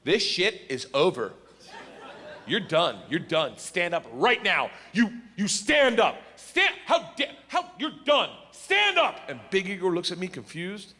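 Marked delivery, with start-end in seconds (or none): 0.0-9.2 slow bossy teacher commands; stern teacher. Retold or imitated. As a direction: order him up like a stern teacher. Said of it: "swings the door open with that, like, liberal arts confidence".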